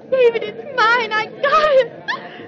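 high, slow, laughing with delight; thrilled. Real, not acted. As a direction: squeal with joy at winning. Won the auction, delighted.

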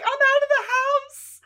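high, excited squeal of joy; thrilled. Retold or imitated. Sheila delighted to escape the house, squealing. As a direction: bubble over with glee. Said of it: "Sheila's thrilled about it".

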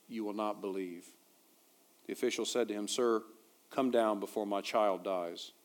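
measured, slightly subdued Bible reading; scripture reading. Acted. Pastor reading John's gospel to the congregation, measured scripture reading. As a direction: read the passage aloud soberly, phrase by phrase.

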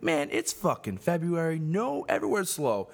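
fed-up barman's comeback, retold; retold exasperated retort. Retold retort to complaining customer.

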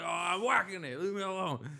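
put-on loud high teenage protest; whiny yell. Drunk teen defending himself to mom, high loud whine. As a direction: wail it back at mom, exaggerated.

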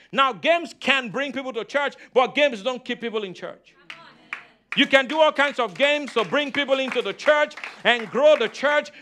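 driving, insistent sermon delivery; emphatic preaching. Real, not acted. Preacher urging the congregation to trust the word, emphatic preaching. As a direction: preach it with punchy stressed key words. Preacher argues against church gimmicks.

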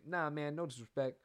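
lightly voiced rapper impression. Podcaster demonstrates his impression of a rapper, lightly voiced. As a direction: redo the rapper with only a hint of voice. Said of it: "that's my rapper".

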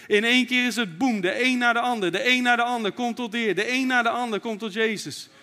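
loud, fervent preaching at full force; rally the church with rising fervour. Acted. Preacher rousing the congregation, loud and fervent.

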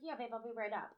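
soft, low-key imitated reply; quiet half-awake voice, imitated; sleepy partner. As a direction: mumble it as the drowsy partner, retold.

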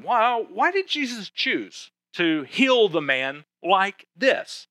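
slow, rising, wondering question; puzzled listener's question. Retold or imitated. Pastor voicing a curious listener's question, slow and rising. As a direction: voice the congregation's puzzlement. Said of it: "you might be wondering".

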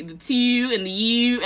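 mocking Baltimore vowels, drawn out; slow, exaggerated Baltimore "oo" sounds; Baltimore accent. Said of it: "Y'all accents are ugly as hell".

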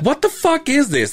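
high incredulous demand; imitating the uncle waving the brochure; mock gruff uncle. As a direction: uncle confronting him about the brochure, high disbelief. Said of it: "it's like".

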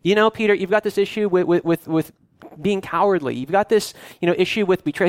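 half-play a scolding teacher ticking off sins; mock scolding Jesus. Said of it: "He doesn't say".

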